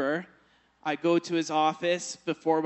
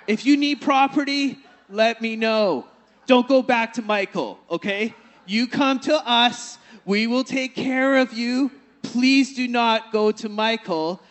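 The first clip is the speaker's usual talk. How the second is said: bank manager pleading, louder, half laughing; eager louder bank manager; 4 semitones higher, 7 dB louder than usual. Retold or imitated. Bank manager begs Andy to stay, eager and loud. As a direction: urge him warmly not to go elsewhere.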